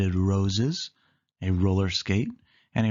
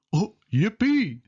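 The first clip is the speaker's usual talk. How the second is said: much higher, slow goofy whoop; Goofy yell; 11 semitones higher than usual. Acted. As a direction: draw out a silly cheer. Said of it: "he yelled".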